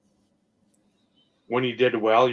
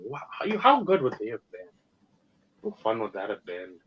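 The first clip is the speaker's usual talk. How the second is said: mock fan. Mocking a fan's what-if question.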